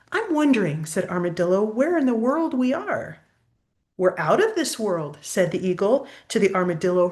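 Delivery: lilting rhyming storybook read; reading to a child. A narrator's reading. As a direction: read the verses aloud to a little one. Reads rhyming picture book aloud.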